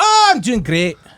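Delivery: light brogue, very high and slow. Retelling greeting restaurant tables as a costumed waiter: little brogue. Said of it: "with my little brogue".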